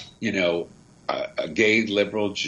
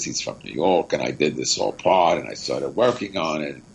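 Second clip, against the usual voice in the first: put-on lonely New York butcher, lower pitched accent; 5 semitones lower than usual. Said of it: "And he talks like this".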